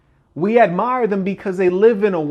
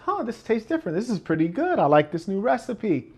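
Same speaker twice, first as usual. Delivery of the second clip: higher and softer, a mild impressed huh; pleasantly surprised taster; 5 semitones higher, 4 dB quieter than usual. Retold or imitated. Customer tasting new fries.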